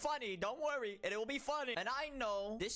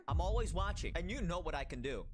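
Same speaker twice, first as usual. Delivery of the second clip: loud, ominous vigilante warning; Dark Knight voice; 4 dB louder than usual. Acted. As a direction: threaten them like a brooding superhero. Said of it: "making myself sound like the f-, Dark Knight".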